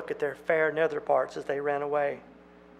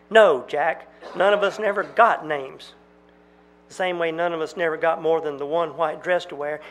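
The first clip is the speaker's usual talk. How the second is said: accusing. Acted. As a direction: throw it back at him. Maiden accusing Jack.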